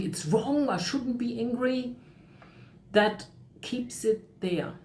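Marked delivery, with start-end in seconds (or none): 0.0-2.0 mock self-reproach, pitched higher. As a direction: act out a self-critical thought in a higher voice. Voices self-critical thought.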